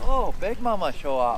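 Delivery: playful put-on Japanese-accented English; singsong imitation of a Japanese accent; mock Japanese accent. Angler greeting a big fish, in mock Japanese accent. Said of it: "Why am I talking in Japanese now?".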